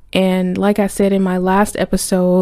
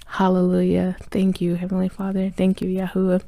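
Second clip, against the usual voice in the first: quiet prayer; 6 dB quieter than usual. Real, not acted.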